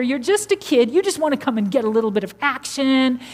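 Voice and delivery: mock dismissive sibling; mad brother. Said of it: "his brother was mad".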